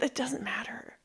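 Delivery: breathy whispered aside. Real, not acted. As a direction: drop to a whisper. Muttered aside while co-host talks.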